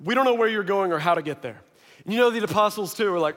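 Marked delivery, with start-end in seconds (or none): 0.0-1.6 hesitant low um, then a quick question; sheepish. Retold or imitated. Thomas asking Jesus the way, sheepishly. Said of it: "raises his hand kinda sheepishly".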